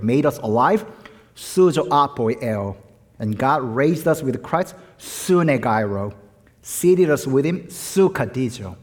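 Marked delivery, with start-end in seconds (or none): 1.3-2.8 "suzo apoieo" said slowly, opening on a clear "su"; Greek word demonstration. Shown as a demonstration. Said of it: "listen to the first syllable". 5.0-6.1 "sunegairo" set apart, lower, opening on "su"; Greek word demonstration. Shown as a demonstration. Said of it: "listen to the first syllable". 7.6-8.8 "sukadizo" set apart, opening on "su"; Greek word demonstration. Shown as a demonstration. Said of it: "listen to the first syllable".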